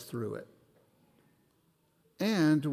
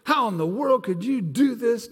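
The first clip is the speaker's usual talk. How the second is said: mock prophet rebuke; 6 semitones higher, 4 dB louder than usual. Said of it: "he didn't come in and go".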